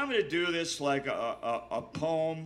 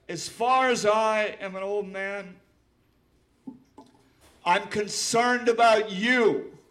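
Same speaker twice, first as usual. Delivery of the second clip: higher, louder and slowing; impassioned plea; 6 semitones higher, 7 dB louder than usual. Real, not acted. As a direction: plead with them urgently.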